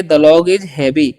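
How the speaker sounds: The log is heavy spoken very slowly and clearly; slow dictation for learners; slow model sentence. Shown as a demonstration. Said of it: "जैसे हम अगर बोलना चाहेंगे". (धीमे उच्चारण में उदाहरण वाक्य)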